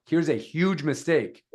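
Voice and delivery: slow, assertive hook; assertive, with conviction. Shown as a demonstration. Coach shows how to open a video, assertive. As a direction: say it with conviction, leaning on "huge". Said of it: "you say it with conviction, an assertive voice".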